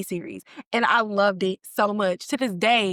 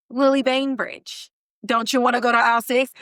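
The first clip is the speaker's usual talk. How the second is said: chirpy radio voice; 3 dB louder than usual. Retold or imitated. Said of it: "the radio voice".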